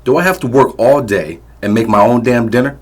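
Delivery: loud, high berating shout; angry yelling. Acted. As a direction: tear into her over dinner. Drunk father berating wife.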